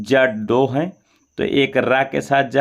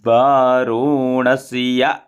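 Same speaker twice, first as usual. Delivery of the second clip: calm full recitation. Shown as a demonstration. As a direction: chant it all together, at ease. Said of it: "थोड़ा सा आराम से बोलेंगे पूरा मिला के". (आराम से पूरा मंत्र)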